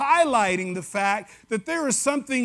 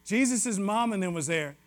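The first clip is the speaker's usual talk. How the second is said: relaxed West Tennessee Southern slang, softer; 2 semitones lower, 4 dB quieter than usual. Shown as a demonstration. Preacher explains his own West Tennessee talk, easy Southern slang. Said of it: "That's how we say it in West Tennessee".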